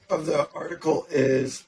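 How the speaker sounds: raspy, strained throat mid-sentence; voice cracking. Real, not acted. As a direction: voice giving out for real. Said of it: "What the heck did you just frickin' swallow".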